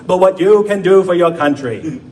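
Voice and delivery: put-on Boston Kennedy accent through a laugh; JFK Boston accent. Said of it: "in that amazing accent".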